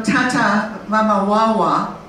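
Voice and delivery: lightly imitated baby babble, drawn out; little baby talk. Teacher imitates a baby asking for water, light baby talk. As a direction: say mama, wawa like a toddler, slowly. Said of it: "the little baby".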